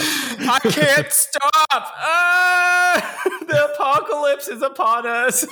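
hammed-up accent cracking into laughs; deliberately terrible Boston accent; bad Boston accent. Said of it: "It's, it's getting worse".

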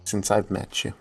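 slow, dripping with sarcasm; sarcastic. Acted. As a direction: lay the sarcasm on thick. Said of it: "the sarcasm is dripping".

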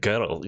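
put-on "girl" stretched towards two syllables; imitated Scottish "girl", split before the L; extra syllable. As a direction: say "girl" with an added vowel before the L, like "gir-ul". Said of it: "You guys add syllables to words".

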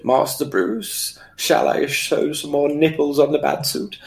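slow, lightly put-on butler; a mild impression of a proper butler; posh butler voice. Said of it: "we're used to".

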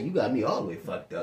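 low, soft private verdict; retold thought, dropped deep and quiet; inner voice. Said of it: "bro, my mind said".

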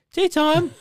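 high, loud mock call; imitated shouting. Coach quoting what he thought was shouted, imitated shouting. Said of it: "you were looking at me shouting".

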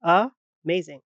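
"amazing" with a light uh first syllable; schwa demo. Shown as a demonstration. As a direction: start "amazing" with a weak uh. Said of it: "So you pronounce it".

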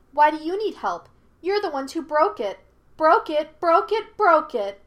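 put-on high, loud childlike jeer; mocking. A narrator's reading. Monkey spirit blames the visitors, high and mocking. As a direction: chant it back mockingly. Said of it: "mocked the speaker".

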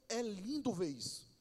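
soft, hushed voice of God; a quiet, awed divine line; God speaking. Retold or imitated. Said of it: "Deus diz".

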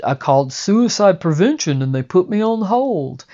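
a hint of a stand-up comic's put-upon delivery; Rodney Dangerfield. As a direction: toss it off like a tired old comic's one-liner. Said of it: "that Rodney Dangerfield thing".

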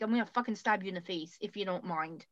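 mock polite threat. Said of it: "I'll be polite about it".

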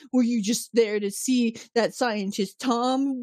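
imitated hostile questioning; mock jealous accusation, drawn out. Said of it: "like, really hostile to her".

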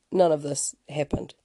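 a dry aside in a whisper. Acted. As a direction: whisper it like a punchline. Deadpan aside after a vision.

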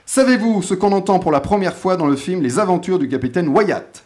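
"Savez-vous" opening a quiz question, clearly read out; game show host reading the question. Acted. Host reads the quiz question to the panel, game show style. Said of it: "Premier saviez-vous?".

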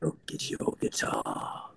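low, slow, breathy mumble; low slurred rock star impression; drunk rock star mumble. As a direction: drawl it like a drunk rock star. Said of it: "He goes".

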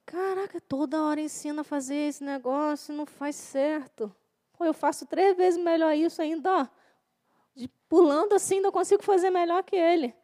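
imitating a proud churchgoer looking down on others; mock arrogant complaining. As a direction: play the smug know-it-all, sneering. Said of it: "Quantas vezes você se achou melhor?".

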